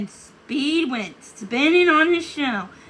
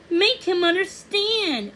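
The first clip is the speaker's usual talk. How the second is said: pleading; 7 semitones higher than usual. Acted. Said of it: "Odette begged".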